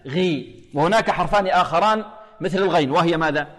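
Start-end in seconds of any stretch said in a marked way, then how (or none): 0.1-0.6 غي as "ghi", least heaviness; long غي with minimal emphasis; ghayn with kasra. Shown as a demonstration. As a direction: model غي lightly heavy, not thickened. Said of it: "وإذا كانت مكسورة".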